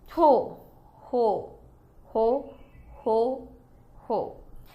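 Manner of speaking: shifting, different inflection on every ho. Narrator reads a character's repeated exclamation, a different inflection on each ho. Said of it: "giving the exclamation a different inflection each time he uttered it".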